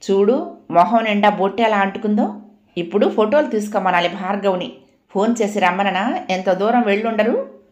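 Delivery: light playful ribbing; a mild mocking lilt; teasing. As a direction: tease the crying bride. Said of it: "వేళాకోళంగా అడిగింది".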